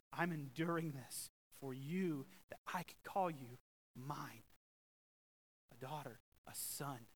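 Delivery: slow, tender reassurance; compassionate Jesus. Retold or imitated. Jesus reassures the guilty believer, slow and tender. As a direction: speak it with gentle compassion. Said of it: "that reminds us".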